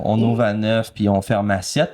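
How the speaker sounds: lightly jaded store clerk; jaded employee. Acted. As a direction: give the hours with mild disinterest. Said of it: "une jeune fille complètement désabusée". (employée un peu désabusée)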